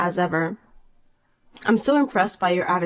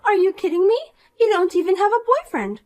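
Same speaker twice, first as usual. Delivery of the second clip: put-on bright, higher voice of a smug mean girl; snide rich girl; 11 semitones higher, faster than usual. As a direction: talk down to her with sweet contempt. Poppy scoffs.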